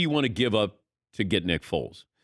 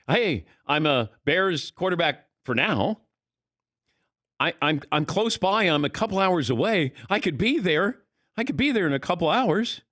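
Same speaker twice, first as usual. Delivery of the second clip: mock flirty pitch; 5 semitones higher than usual. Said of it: "sounded like somebody was flirting".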